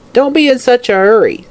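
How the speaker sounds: put-on high snapping old hag; scowling. A narrator's reading. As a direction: scold him with a scowl. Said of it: "said the hag with a scowl".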